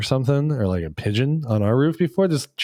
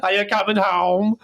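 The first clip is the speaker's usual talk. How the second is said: Carmel; 7 semitones higher than usual. Acted. Wife teasing her bird-obsessed husband, high singsong. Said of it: "even Carmel's like".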